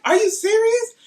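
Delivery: high, loud, incredulous rant; furious disbelief. Retold or imitated. Confronting the rep over the girls they chose, loud and outraged. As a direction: demand an answer, outraged.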